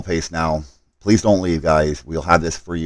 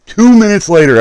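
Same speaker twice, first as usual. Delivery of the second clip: exasperated emphasis; 10 dB louder than usual. Real, not acted. Exasperated retelling of bad timing.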